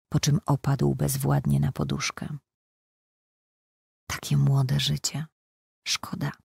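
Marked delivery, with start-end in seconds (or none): 4.1-6.3 sorrowful sigh trailing to near silence; mild pained sigh. Acted. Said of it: "westchnęła z bólem".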